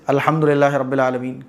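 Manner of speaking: quick, careless reading; hurried recitation. Shown as a demonstration. Teacher showing the careless fast way. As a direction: rush through it. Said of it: "کبھی نہیں ٹھیک ہوگی".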